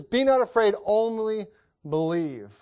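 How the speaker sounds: Be not afraid, said out strong and high; a preacher voicing Jesus boldly. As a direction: call out the comfort, ringing. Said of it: "he says".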